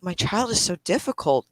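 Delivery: lightly voiced, very proper complaint; very proper parent. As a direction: politely put up a public front. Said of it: "she's talking very proper about it".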